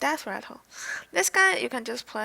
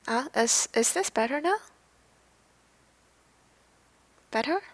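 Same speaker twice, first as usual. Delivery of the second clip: too loud; 4 dB louder than usual. Real, not acted. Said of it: "Too loud".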